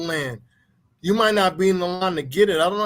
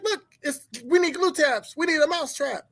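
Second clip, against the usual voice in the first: mock wife panic; 8 semitones higher than usual.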